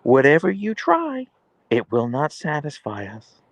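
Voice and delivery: high, grand, solemn proclamation, slowing to a whisper; dogs' mock decree. Owner voicing her huskies' pompous vow never to sleep. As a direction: voice the huskies as ominous rulers. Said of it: "they're just gonna be like".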